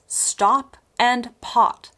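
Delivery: "stop" and "pot" with an open, unrounded ah; American O vowel. Shown as a demonstration. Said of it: "like this".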